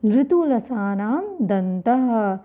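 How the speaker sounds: slow, measured chant of the rule; slow sutra recitation. Shown as a demonstration. Teacher reciting the sutra slowly for students to memorise. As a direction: recite the sutra deliberately, syllable by syllable. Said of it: "इसका सूत्र क्या है?".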